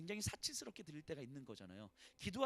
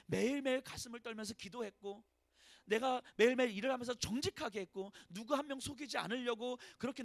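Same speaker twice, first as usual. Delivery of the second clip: pleading complaint; 5 semitones higher, 3 dB louder than usual. Acted. Voicing a believer's complaint to God.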